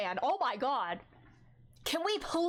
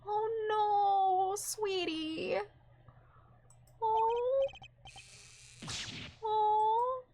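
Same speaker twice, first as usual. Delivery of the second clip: tender coo; 8 semitones higher, much slower than usual. Real, not acted. Cooing over a sad game scene.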